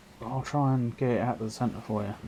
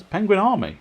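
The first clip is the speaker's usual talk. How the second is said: high, loud proclamation; mock-grand cheer for the penguin army; excited shout; 10 semitones higher, 9 dB louder than usual. Real, not acted. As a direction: announce it like a battle cry. Hyping the opposing team name.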